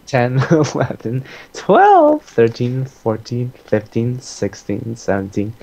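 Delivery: giggling through the count; laughing while counting. Real, not acted.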